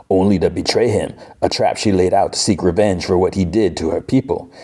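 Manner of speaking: bad put-on Cajun accent; hammy Cajun storyteller; Gambit. Gambit recounts Apocalypse's old love, badly faked Cajun accent. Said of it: "the worst Gambit accent ever".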